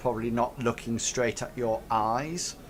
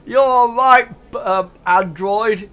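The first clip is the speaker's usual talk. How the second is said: high, loud ruffian voice; loud, hearty seal of approval; approving ruffian; 9 semitones higher, 11 dB louder than usual. Acted. Ruffians laughing along with the android, high and loud. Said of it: "sort of say".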